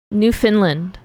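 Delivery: Newfoundland run together as one quick word. Shown as a demonstration. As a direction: say Newfoundland in one go, no gap after New. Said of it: "Say it quickler, quicker?".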